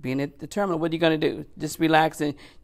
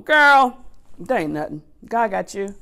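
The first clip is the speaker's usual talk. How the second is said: inner scream; 5 semitones higher, 5 dB louder than usual. Retold or imitated. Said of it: "I'm screaming, I'm going".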